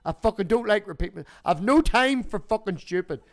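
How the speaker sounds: retold rant. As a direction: vent that you're fed up with repeating. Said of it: "And I was like".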